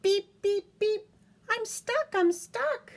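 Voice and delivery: mock distress for a toddler; stuck little truck. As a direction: plead like a small toy. Stuck truck voiced in book.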